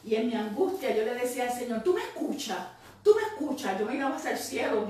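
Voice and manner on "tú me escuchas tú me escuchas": higher, pleading cry, the second one louder; retelling a desperate cry toward heaven; anguished plea to God. Retold or imitated. Woman in her car crying out to God, higher and anguished. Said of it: "verdaderamente yo estaba llorando".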